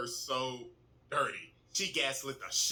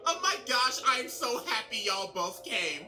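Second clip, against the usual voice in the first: higher, gushing mock welcome; fake delight; 5 semitones higher than usual. Azula welcomes brother and uncle aboard, fake delighted. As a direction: gush over them insincerely. Azula feigns joy at their arrival.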